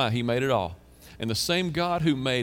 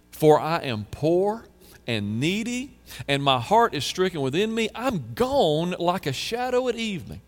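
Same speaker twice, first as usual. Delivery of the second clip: anguished reading; 5 semitones higher, 3 dB louder than usual. Acted. Reading psalm with feeling.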